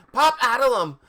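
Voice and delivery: high, loud angry spell-casting; angry yell. A narrator's reading. Ebony pointing her wand at them, angry yell. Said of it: "I yielded angrily".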